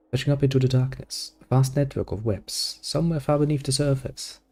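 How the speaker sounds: measured, even storyteller read; story narration. A narrator's reading. Reading the game's scene to viewers, steady narration. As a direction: set the scene for the listener. Reading game text aloud.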